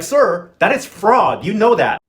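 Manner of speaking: slow, deliberate and emphatic, like scolding; mock indignant retort. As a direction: spell it out slowly to a crook. Mock retort to villain's plan.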